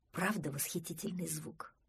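soft, dreamy musing. A narrator's reading. Простодурсон admires the splash of the sea, dreamy. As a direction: muse softly to yourself. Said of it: "мечтательно сказал Простодурсон".

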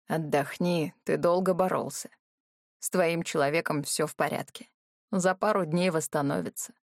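put-on steady, reassuring older brother; calm older brother. Hira speaks to wounded brother.

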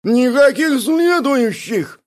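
exclaimed protest. A narrator's reading. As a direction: refuse loudly. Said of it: "воскликнул Бяка". (громкий возглас, выше и медленно)

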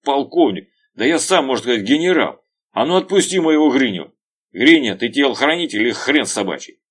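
high, loud boastful yell; raging shout. Acted. Veryovkin bellows at the colonel, raging. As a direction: roar your own rank.

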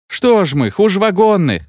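high-pitched crowd protest; indignant shouting. A narrator's reading. Locomotive men storming the meeting, shouting in protest. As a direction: raise the voice in mild outcry. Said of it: "кричали они".

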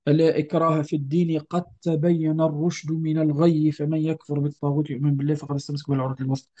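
an even recitation of the verse; quran recitation. Acted. Teacher recites the verse for students. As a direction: recite the verse steadily, speeding toward the end.

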